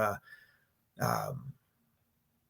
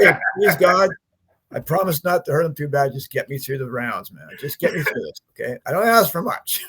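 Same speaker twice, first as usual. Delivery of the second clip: mock prayer. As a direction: beg God for help, half joking. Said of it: "I almost found religion".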